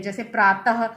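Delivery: प्रातः ending on a breathy h sound; visarga demo. Shown as a demonstration. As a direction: finish प्रातः with an audible h. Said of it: "ह के रूप में".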